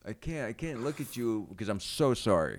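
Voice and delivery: so sorry you can't look at them; hammed-up remorse breaking into a laugh; overcome apology. Shown as a demonstration. Comic demonstrating an apology to his co-host, overcome and cracking up. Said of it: "It's how bad I feel about it".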